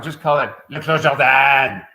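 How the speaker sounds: Le Clos Jordan said the French way, Clos as kloʃ, Jordan as ʒɔʁdɑ̃ with no English r; loud, breezy Quebecois French accent on Le Clos Jordan. Retold or imitated. Burgundy winemaker mimics Quebecois, Quebecois French accent. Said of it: "he said that with a French accent".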